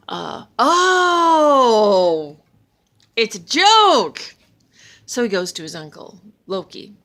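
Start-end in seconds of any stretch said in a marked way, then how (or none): 0.1-4.4 loud, high alarmed outcry; the penny drops, loudly. Acted. Thor panics, realises trick.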